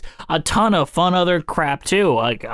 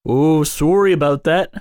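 put-on Canadian "sorry" with "about" left nearly standard; mock-Canadian apology, missing the "aboot"; half-right Canadian accent; botched Canadian accent; 2 semitones lower than usual. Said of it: "you actually messed that up".

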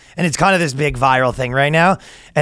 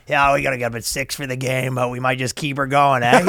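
lower, softer mock Canadian voice; Canadian accent; 5 semitones lower, 4 dB quieter than usual. Imitating a drinking Canadian dad at a tournament, Canadian accent. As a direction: do a hockey dad's Canadian lilt. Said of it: "So they were Canadian".

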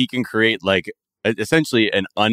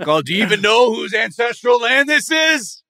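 mock indignant; 10 semitones higher than usual. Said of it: "acted indignant question".

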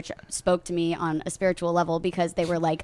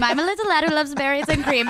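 high, lilting little lad; 8 semitones higher than usual. Retold or imitated. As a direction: sing it like the candy ad lad. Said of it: "that berries and cream commercial".

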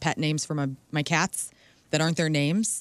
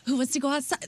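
higher sing-song talk to pets; pet baby talk; 7 semitones higher, faster than usual. Retold or imitated. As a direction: coo at the cats. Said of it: "hashtag cringe".

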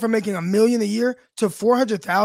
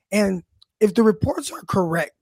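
hoarse, fading voice; strained, cracking voice; losing voice. Real, not acted. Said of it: "I'm losing my voice a little bit".

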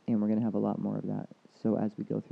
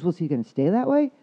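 high, loud, anxious client; a touch of pleading, voiced high; 6 semitones higher, 7 dB louder than usual. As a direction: play the worried client asking.

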